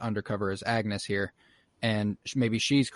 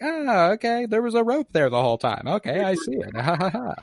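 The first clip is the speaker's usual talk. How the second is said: much higher, louder fake cheer; mock forced audience laugh; 10 semitones higher, 4 dB louder than usual. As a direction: play along with a forced laugh. Audience fakes amusement.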